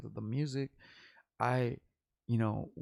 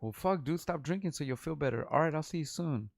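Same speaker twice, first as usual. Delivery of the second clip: mad scolding; 5 semitones higher than usual. Retold or imitated. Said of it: "literally got mad at him".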